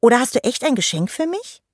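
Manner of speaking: high, eager rising question; wide-eyed, high-pitched hope; hopeful question. Acted. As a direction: ask like an excited child. Fairy hopes for a present.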